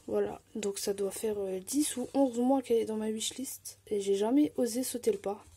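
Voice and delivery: ordinary talk, nothing marked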